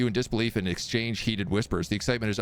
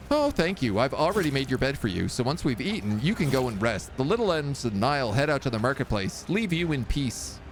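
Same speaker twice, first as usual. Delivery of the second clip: lightly voiced wife, a touch higher; loving wife; 3 semitones higher than usual. Wife greets her husband home in a lightly higher voice.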